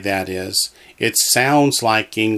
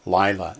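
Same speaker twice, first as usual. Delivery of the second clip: "Lila" with the weight on LI; teacher modelling "Lila" LI-la; stress on first syllable. Shown as a demonstration. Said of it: "That one accents on the first syllable".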